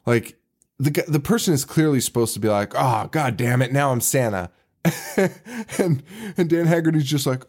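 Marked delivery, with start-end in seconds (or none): 2.7-4.5 understated imitation of an angry line, no real yell; mock exasperated outburst. Podcaster showing how Santa's line should sound, mildly exasperated. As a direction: act mildly fed up, with some emotion. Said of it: "like, yelled at, or, like, some, some range of emotion".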